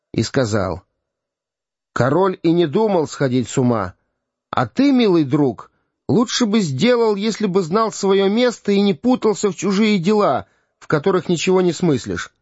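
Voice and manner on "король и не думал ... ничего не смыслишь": put-on raised, indignant young king. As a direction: scold the old man from above. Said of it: "с негодованием посмотрел".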